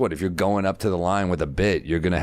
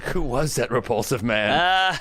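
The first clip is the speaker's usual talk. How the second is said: mom's disgust; 6 semitones higher, slower than usual. Retold or imitated. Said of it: "And my mom was like".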